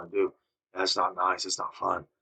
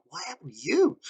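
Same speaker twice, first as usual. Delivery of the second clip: retold whisper; 11 semitones higher than usual. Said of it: "I said".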